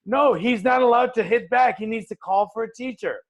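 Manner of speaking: mock teacher's high-pitched insistence; high, protesting teacher impression; objecting teacher.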